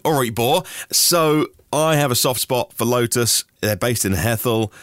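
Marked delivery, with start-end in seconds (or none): 0.1-0.6 local Norfolk greeting; quick taste of Norfolk dialect; Norfolk accent. Shown as a demonstration. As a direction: greet a mate in broad Norfolk. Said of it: "that is the Norfolk accent".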